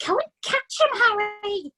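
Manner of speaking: wife pushing husband to act, urgent; urgent mother. A narrator's reading. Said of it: "hissed the mother".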